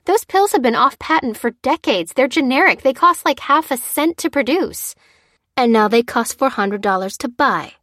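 high, loud, indignant rant; outraged cry. A narrator's reading. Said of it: "cried Lucy".

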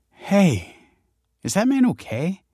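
a lightly voiced sudden concern; alarmed question. A narrator's reading. Young woman spotting a swaying man, alarmed.

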